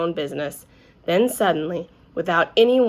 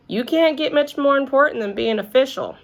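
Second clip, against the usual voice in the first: higher, eager grown-up voice; principal, keen; 6 semitones higher than usual. A narrator's reading. Principal assuring Junie B. official is important. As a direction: sell it like the best news ever.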